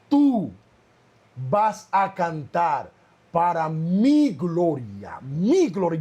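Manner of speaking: slow, solemn divine voice; a slow, hushed-down heavenly command; voice of God. Retold or imitated. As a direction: intone it slowly, like God calling from above. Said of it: "una voz audible".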